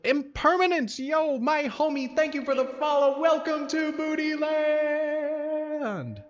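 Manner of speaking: high, loud hype welcome; hype streamer shoutout. Real, not acted. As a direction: greet the follower with big hype.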